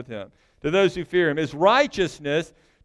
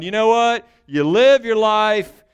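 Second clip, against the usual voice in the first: gloomy Solomon; 4 semitones higher, 5 dB louder than usual. Retold or imitated. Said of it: "writing the book of Ecclesiastes going".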